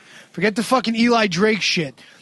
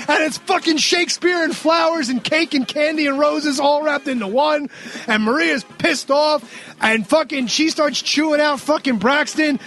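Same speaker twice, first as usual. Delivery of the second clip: ordinary talk, nothing marked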